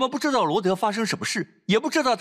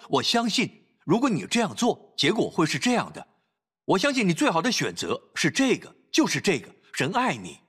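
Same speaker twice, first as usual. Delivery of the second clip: calm parent; 3 semitones lower than usual. Shown as a demonstration. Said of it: "就正常冷静地说话".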